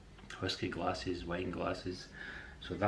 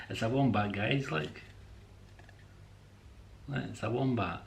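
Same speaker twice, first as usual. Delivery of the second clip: excited showing; 4 semitones higher than usual. Real, not acted. Shows viewers the wombat.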